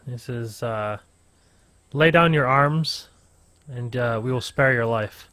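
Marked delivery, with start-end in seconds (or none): 1.9-5.3 slow, firm accusing commander voice; a hint of a stern soldier, measured.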